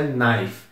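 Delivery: knife said with a silent K, starting on the N. Shown as a demonstration. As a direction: say knife as "naif", no K sound. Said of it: "só que esse K é mudo".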